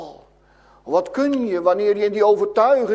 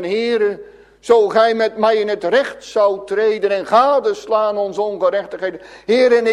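fervent plea; 3 semitones higher, 4 dB louder than usual. Acted. Sinner confessing before God, loud and pleading. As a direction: cry it out to God.

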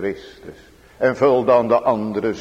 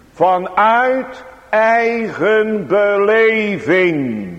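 raised, urgent pulpit delivery; fervent preaching; 5 semitones higher, 4 dB louder than usual. Acted. Preacher urging on a struggling believer, fervent preaching.

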